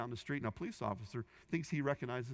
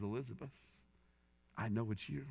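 gentle officer. Retold or imitated. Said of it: "looks at her dead in the eye".

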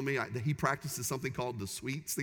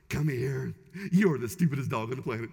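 harsh tone; 4 dB louder than usual. Shown as a demonstration. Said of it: "the tone of your voice makes all the difference".

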